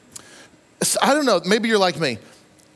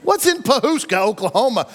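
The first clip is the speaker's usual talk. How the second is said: mock surprise; 3 semitones higher than usual. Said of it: "I'm like".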